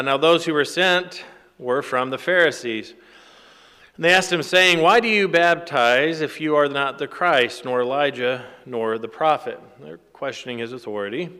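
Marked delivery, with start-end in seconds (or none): 0.0-9.6 firm, projected Bible reading; scripture reading. Acted. Preacher reads Pharisees questioning John, emphatic scripture reading. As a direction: read the challenge out emphatically.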